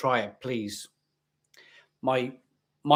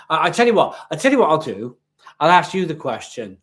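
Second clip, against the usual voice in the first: indignant; 6 dB louder, faster than usual. Real, not acted. Rising to confront critic.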